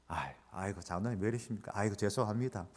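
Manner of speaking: soft, quiet, cowering plea; meek apology. Retold or imitated. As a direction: shrink back and beg softly. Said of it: "막 이랬습니다". (기죽어서 조용히 비는 목소리)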